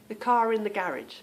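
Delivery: "car in" run together with an R between; linking R. Shown as a demonstration. Showing her home speech, "car in" joined by R. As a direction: link "car" to "in" through a sounded R. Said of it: "you will hear the R".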